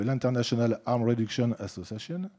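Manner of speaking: English name said with a clumsy French accent; mauvais accent anglais. Real, not acted. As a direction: attempt English pronunciation as a French speaker. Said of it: "vous m'excuserez mon accent anglais, il est désastreux". (accent anglais maladroit de francophone)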